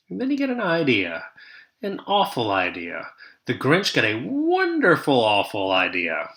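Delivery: lively singsong read-aloud rhythm; storybook narration. A narrator's reading. Teacher reading the Grinch to her class, lively storytelling. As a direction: read it like a picture book to kids.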